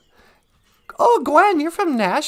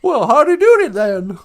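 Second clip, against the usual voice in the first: mock impression; 6 dB louder than usual. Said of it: "you can't do that with any other group".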